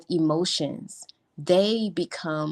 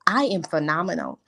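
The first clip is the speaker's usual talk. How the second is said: big phenomenal. Shown as a demonstration. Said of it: "can we get something else".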